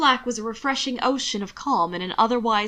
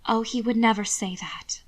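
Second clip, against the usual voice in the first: soothing whisper. Acted. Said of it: "Margot soothed".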